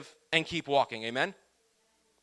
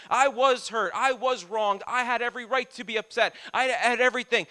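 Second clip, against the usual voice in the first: self-pitying protest; 5 semitones higher than usual. Retold or imitated. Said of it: "He could have done all of this".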